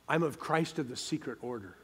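softly confiding a secret; mock secretive. Secret Christian confesses to co-workers, mock secretive hush. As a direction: keep it low-key, as if hiding it.

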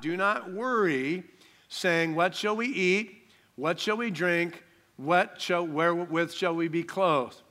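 slow, solemn Bible reading; scripture reading. Acted. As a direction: read the verses slowly and reverently. Reads scripture slowly.

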